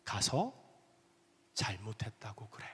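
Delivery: God quietly telling the husband to apologize; quiet whisper. Acted. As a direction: whisper it like a still small voice. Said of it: "주님이 그렇게 말씀하시더라고요".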